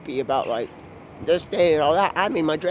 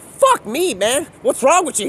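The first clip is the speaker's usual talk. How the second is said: mock exasperation; 5 semitones higher, 5 dB louder than usual. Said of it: "I'm like".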